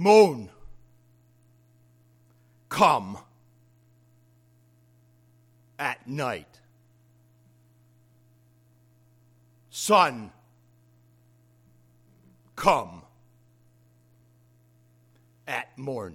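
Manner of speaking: very slow, deliberate, drawn-out delivery. Retelling the old story he told a giddy group in the tent, said very slowly. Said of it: "I would say that slow like that".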